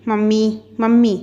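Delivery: mild mock shout for her mother, rising on the second call; गुस्से में माँ को पुकारती हुई; calling out angrily. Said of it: "चिल्लाने लगी".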